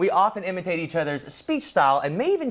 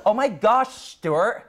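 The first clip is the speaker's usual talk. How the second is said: put-on raised Californian-accent outburst; SNL Californians impression; 5 semitones higher, much slower than usual. Host quoting an SNL sketch, Californian accent. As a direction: exclaim it like SNL's Californians. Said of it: "S N L".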